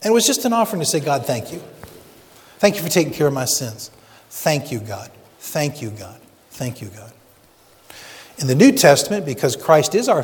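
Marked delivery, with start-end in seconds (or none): 1.0-7.1 softening to a hush on each God; murmured thank you, fading each time. Acted. Worshipper offering thanks to God, fading to a hush.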